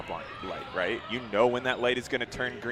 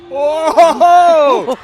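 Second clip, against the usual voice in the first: sudden startled yell; loud sharp voice; 16 dB louder than usual. Real, not acted. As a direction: yell it out in shock. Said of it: "I'm sorry for yelling that loud".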